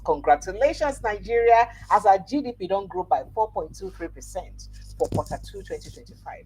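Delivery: emphatic news-bulletin read; headline read. Acted. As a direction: announce it to the nation with punch. Announces a headline.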